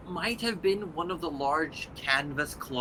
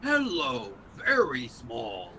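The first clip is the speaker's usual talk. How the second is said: creature voice; slower than usual. Acted.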